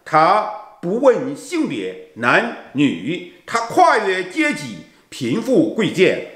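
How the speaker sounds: earnest, devotional prayer-poem recital; slow emotional poem reading. Acted. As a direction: read it like a heartfelt hymn to God.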